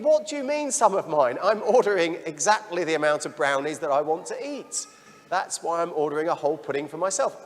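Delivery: high, loud mock outrage; hammed-up indignation at sharing brownies; indignant inner voice. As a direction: protest like a child whose dessert is under threat. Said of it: "inside, I'm thinking".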